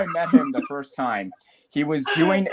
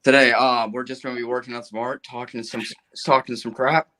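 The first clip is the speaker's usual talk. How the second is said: Joe impression; 4 semitones lower than usual. Friend continues the host impression, lower and casual. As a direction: lower laid-back host patter. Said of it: "let me try it".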